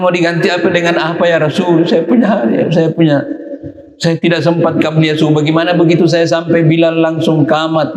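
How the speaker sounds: high, distressed asking; pleading lament. Retold or imitated. The companion begs the Prophet for a remedy, high and distressed. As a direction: beg to know how to make it up. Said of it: "Dia bilang".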